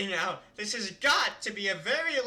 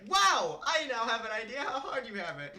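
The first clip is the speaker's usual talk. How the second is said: mock realization; 5 semitones higher than usual. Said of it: "And it's like".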